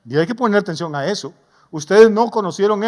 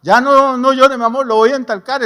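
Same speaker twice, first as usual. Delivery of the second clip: pleading parent; 4 semitones higher, 4 dB louder than usual. Pretend. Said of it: "El niño llora".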